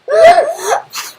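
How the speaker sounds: high, loud laughing wail. Real, not acted. Student stuck on the code, high laughing wail. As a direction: wail somewhere between laugh and cry.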